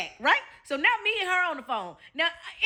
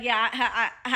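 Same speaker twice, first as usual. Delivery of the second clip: joking; 4 semitones lower, slower than usual. Retold or imitated. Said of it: "he said it in a joking way".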